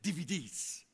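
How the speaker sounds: little kid's sing-song call, mimicked; excited little grandson. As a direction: imitate a small boy's eager DVDs. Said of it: "He says it like that".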